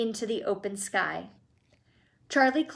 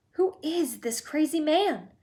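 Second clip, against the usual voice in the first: mild mock scream; 6 semitones higher than usual. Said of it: "screamed Grandma Josephine".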